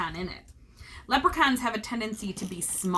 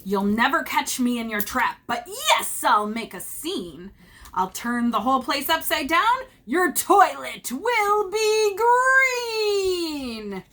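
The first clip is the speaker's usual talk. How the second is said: taunting leprechaun; 4 semitones higher, 4 dB louder, slower than usual. Acted.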